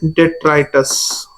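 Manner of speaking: डेट्राइटस drawn out slowly, each syllable spelled out; slow term. Shown as a demonstration. Teacher introducing the new term डेट्राइटस, said slowly. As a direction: stretch out डेट्राइटस slowly so students catch it. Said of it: "थोड़े से बाद में इनको हम क्या बोलते हैं?".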